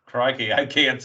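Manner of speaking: bad Australian accent; rough imitation of an Australian wrestler; Rhea Ripley. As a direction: put on a clumsy Aussie accent. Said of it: "I'm doing a bad Australian accent".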